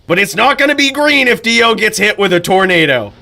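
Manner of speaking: a light touch of an excited announcer; mock hype commentary. Shown as a demonstration. Streamer showing how to hype a duel, mildly excited. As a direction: make obvious facts sound thrilling. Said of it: "state the obvious and make it sound really exciting".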